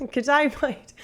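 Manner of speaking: off-the-cuff fake Australian accent; put-on Australian accent. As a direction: toss off a mock Australian accent. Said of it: "so much better when I do it".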